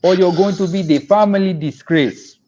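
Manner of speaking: put-on loud West African parent accent; a strict immigrant parent in a West African accent. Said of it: "I have to do this in a West African accent".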